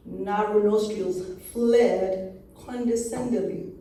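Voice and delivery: measured spoken-word narration; poetry reading with pauses between images; poem recitation. Acted. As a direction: recite it in deliberate, separated phrases.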